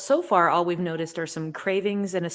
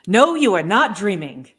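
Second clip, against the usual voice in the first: put-on childlike Ergo voice; 2 semitones higher, 7 dB louder than usual. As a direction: gush like an overexcited child. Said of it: "I'll give him a try".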